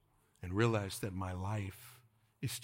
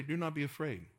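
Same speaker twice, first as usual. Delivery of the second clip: raised lead call; 5 semitones higher than usual. Shown as a demonstration. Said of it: "Everybody say".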